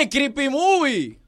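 drawn-out, high-pitched greeting; big, slow, rising radio hello; excited hail. Real, not acted. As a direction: stretch the nickname out with delight. Host hails caller by nickname.

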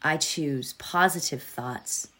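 fading to a hushed whisper; soft whisper. Acted. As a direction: let the mantra drift into a whisper. Meditation fades into whispered mantra.

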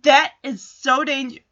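emphatic retold telling-off; imitated angry scolding. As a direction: scold two girls in a retelling, mildly. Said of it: "And she's angry".

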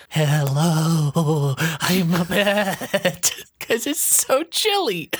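chilly Antarctic bat. Pretend. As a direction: stretch the words out high, as an ice bat. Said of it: "they talk like".

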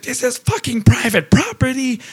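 high, sing-song mock of an angry local; mock ranting woman. Teller mocks the woman guarding her waterfall, high sing-song. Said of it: "this woman is just ranting. She's like".

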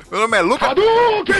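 shouting the name like a special move; high, excited yell; grito empolgado. Pretend. Lê o nome como grito. (grito animado de golpe)

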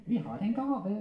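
high ventriloquist puppet voice; puppet character. Acted. Puppet announcing a gift to handler, high comic voice.

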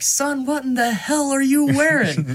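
high, incredulous character voice; Arthur Morgan. Retold or imitated. Game hero to kid in sailor outfit, incredulous. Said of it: "Arthur Morgan's like".

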